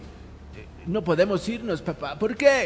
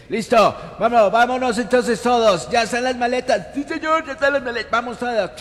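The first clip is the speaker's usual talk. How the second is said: excited; 5 semitones higher, 4 dB louder than usual. Acted. Sketch family setting off.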